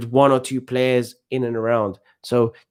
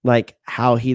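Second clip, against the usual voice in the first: ordinary talk, nothing marked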